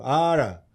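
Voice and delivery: "ara" as a rural caipira interjection; "ara" in countryside dialect; Chico Bento's caipira speech. Shown as a demonstration. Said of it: "o Chico vai falar assim".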